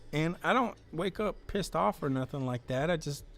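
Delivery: lightly voiced dopey character; a hint of a simple trash guy; Pukey Pete voice. Pukey Pete tells the chat what he dislikes, lightly voiced. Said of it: "I'm still trying to figure out the voice for Pukey".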